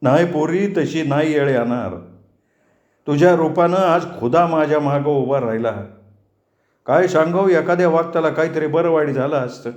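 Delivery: a touch of tearful blessing; grateful old uncle. Acted. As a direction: thank the girl with feeling. Narrator plays the grateful old uncle.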